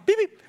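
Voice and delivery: short car-horn imitation; restrained, dainty beep; polite outward honk. Driver outwardly patient at the green light, polite little beep. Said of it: "Outwardly, I'm".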